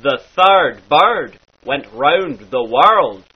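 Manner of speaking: "third" said "thard", slowly. Shown as a demonstration. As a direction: slowly say "world" as "warld". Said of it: "becomes an R sound".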